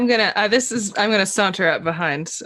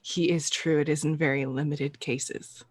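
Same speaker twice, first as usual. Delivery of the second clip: soft, low-key food truck guy; most reassuring; 3 semitones lower, 6 dB quieter than usual. Acted. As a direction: soothe them like a confidant. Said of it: "in my most reassuring".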